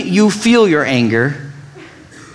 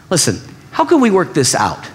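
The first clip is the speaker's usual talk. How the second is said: gentle question. Shown as a demonstration. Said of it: "They say things like".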